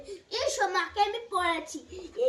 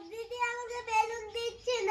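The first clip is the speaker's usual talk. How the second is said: acted crying; 2 semitones higher, 5 dB quieter than usual. Brother complains about sister's balloon, pretend crying. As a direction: whine as a crying little brother. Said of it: "কাঁদছিস?".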